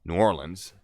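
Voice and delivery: "New Orleans" as new-OR-lins; alternative pronunciation. Shown as a demonstration. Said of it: "when I say New Orleans".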